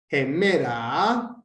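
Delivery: slow HEMERA, accented on the middle ME; penultimate Greek accent. Shown as a demonstration. Teacher showing accent position, slow middle-syllable accent on HEMERA. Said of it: "está en la penúltima".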